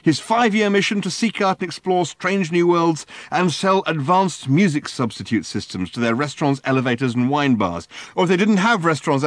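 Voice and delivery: high, loud exasperated rant; Ford's high, loud, fed-up rant. Acted. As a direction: rant it out in a fury. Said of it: "ranted Ford".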